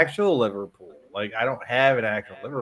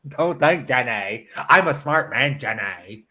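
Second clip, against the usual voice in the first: slow, drawn-out film impression; Forrest; slower than usual. Quoting the film hero to Jenny, slow earnest impression. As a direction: play the earnest simpleton, stretching each word. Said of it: "I'd be like Forrest".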